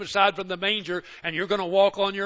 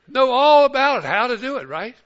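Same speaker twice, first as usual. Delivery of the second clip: emphatic; 8 semitones higher, 11 dB louder than usual. Real, not acted. Mock marvel at grandkids.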